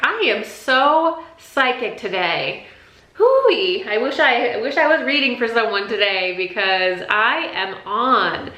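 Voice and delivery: high, elated self-quote with a whooping "Hooey"; excited high times. Acted. Reader imagines a day of high times, excited and elated. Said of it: "you will have high times".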